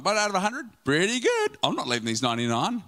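lightly voiced offhand shepherd, ending fast; shrugging shepherd. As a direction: brush off the lost sheep casually. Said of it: "That shepherd could have gone".

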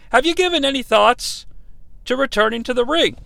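stiff, formal letter read; mock-formal letter reading. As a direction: read the email like a pompous letter. Reads listener email aloud.

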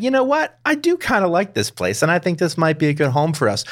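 chirpy alien thinking aloud; high playful alien voice. Retold or imitated. Voicing the aliens' thoughts.

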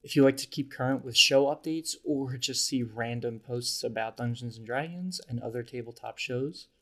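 upbeat podcast ad read; bright host announcement to listeners; announcer voice. Acted. Reads the podcast mid-roll ad.

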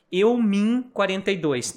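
"Eu mim" slowly spelled out word by word; nonsense example. Shown as a demonstration. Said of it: "não vai fazer sentido a frase". ("Eu mim" devagar, destacando o erro)

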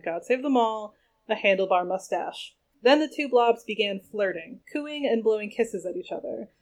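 steady storyteller reading voice; story narration. A narrator's reading. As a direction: read it like an audiobook. Reads novel chapter aloud.

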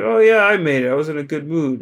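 casual mock-proud reply; breezy admission. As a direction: airily own up, lightly acted. Cheerful cook owns up to soup.

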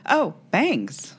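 a pointed, judging "Oh, bangs"; disapproving. Retold or imitated. Sister commenting on my hair, lightly imitated disapproval. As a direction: let the sister's disapproval drip off the word. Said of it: "She said it like that".

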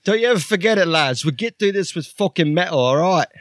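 high, shouty bloke lecturing the lads; rally the crew in a high put-on yell; Archie character voice. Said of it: "Thanks, Archie".

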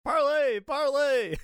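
high, desperate shrieking; screaming. Acted. Prisoner begging the goblin for parlay, shrieking high. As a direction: shriek the word in a panic. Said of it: "I keep screaming".

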